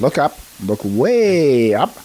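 slow, gentle storybook host voice; Friendly Giant voice. Retold or imitated. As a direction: draw it out like a kids' TV giant. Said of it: "I'm gonna sound like the friendly giant".

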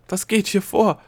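high, loud alarmed question; frantic, bewildered cry; panicked demand. A narrator's reading. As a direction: shout for an explanation in panic. Gnome sinking, demands explanation.

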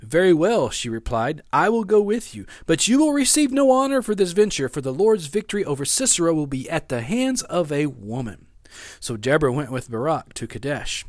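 animated Bible story reading; Scripture reading. Acted. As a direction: read Scripture aloud with emphatic, lifted phrases.

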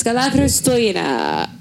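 "Galathrostojina" said as a Greek greeting; Greek pronunciation. Shown as a demonstration. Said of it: "That's how you say it in Greek".

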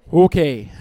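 loud, flat "Okay."; not buying it at all; a parent's loud, unconvinced "Okay."; unimpressed okay. Retold or imitated. Parent reacting to curt apology.

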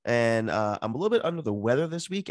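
stuffy blocked-nose voice; talking through a head cold; nasal voice. Real, not acted. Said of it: "from my nasally voice".

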